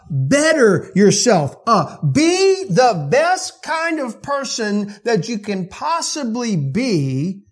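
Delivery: loud, slow, hammered list of demands; mock demand. Preacher mimicking religion's demands, loud and slow. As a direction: preach the rule list like a taskmaster. Mocking works-based religion.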